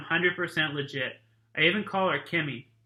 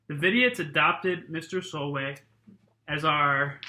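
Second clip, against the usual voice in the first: steady read-aloud narration voice; story narration. A narrator's reading. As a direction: read it like a chapter to the class. Reads a novel to class.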